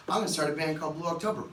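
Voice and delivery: quick, brash declaration; cocky teen. Retold or imitated. Teen quitting to Greg's dad, lightly voiced brash quick announcement. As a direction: toss it off like a defiant sixteen-year-old. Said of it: "I said like this".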